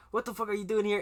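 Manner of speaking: retold indignant demand. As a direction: act out an indignant confrontation. Acted confrontation in retold story.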